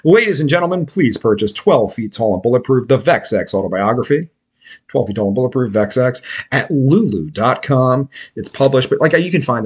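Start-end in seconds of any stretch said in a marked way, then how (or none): 0.1-8.1 mock infomercial announcer read; infomercial pitch. Host plugging his own book to listeners, mock infomercial pitch. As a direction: sell it like a homemade infomercial. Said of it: "Infomercial time".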